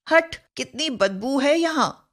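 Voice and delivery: mild mock revulsion at a smell; disgusted. Shown as a demonstration. Teacher acting out disgust at a smell, mild disgust. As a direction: wave off the stink. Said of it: "तिरस्कार तथा घृणा सूचक".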